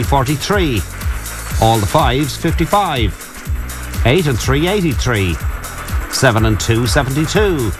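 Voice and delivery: steady number calling with pauses; bingo caller. Acted. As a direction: call each bingo number clearly.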